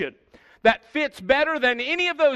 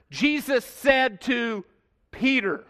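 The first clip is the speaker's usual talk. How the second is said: "Jesus said to Peter" spaced out slowly, with weight on each part; emphatic stress; slower than usual. Shown as a demonstration. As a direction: slowly stress "Jesus said to", then set "Peter" apart after a pause. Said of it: "I emphasized the word".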